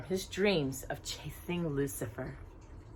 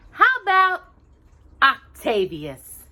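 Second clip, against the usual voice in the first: bright suggestion; 8 semitones higher, 5 dB louder, slower than usual. A narrator's reading. Cinderella naming the mouse.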